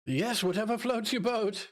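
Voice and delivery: high, slow, offhand call back; distant reply. Acted. Companion answering a call from across the room, offhand. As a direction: toss it back lazily from the next room.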